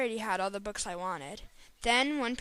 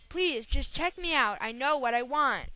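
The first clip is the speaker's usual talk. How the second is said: firm; 2 semitones higher than usual. Acted. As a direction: insist firmly, slightly raised. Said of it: "with a firmness that was new to me".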